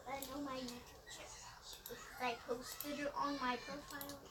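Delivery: hushed, secretive whisper. Real, not acted. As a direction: keep it down so mom can't hear. Whispering to friend near mom.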